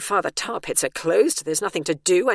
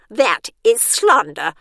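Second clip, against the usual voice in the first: slow, louder indignant retort; the warden bites back; angry snap; 4 semitones higher, 9 dB louder, slower than usual. A narrator's reading. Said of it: "snapped the warden".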